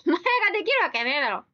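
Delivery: rapid teasing put-down; rough mock retort. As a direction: snap back at the comment, half joking. Repeats retort to viewer.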